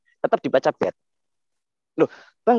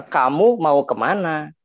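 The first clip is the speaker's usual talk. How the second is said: standard Indonesian; slower than usual. Shown as a demonstration. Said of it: "contoh dalam bahasa Indonesia baku".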